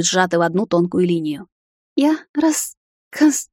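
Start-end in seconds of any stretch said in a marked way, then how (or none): 2.0-3.5 очень высоко и медленно, сбиваясь; запинаться сквозь плач; всхлипывая. A narrator's reading. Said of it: "всхлипывала Асира". (рваный плаксивый лепет)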